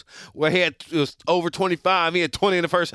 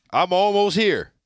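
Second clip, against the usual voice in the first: slow, drawn-out announcement, pitched higher; teasing build-up; 4 semitones higher, 4 dB louder, slower than usual. Acted. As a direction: stretch it out as a big, teasing declaration. Building up to a big declaration.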